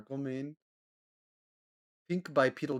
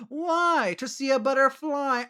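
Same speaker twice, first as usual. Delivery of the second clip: laughing punchline; 13 semitones higher, 8 dB louder, slower than usual. Real, not acted. Laughing at her own butter joke.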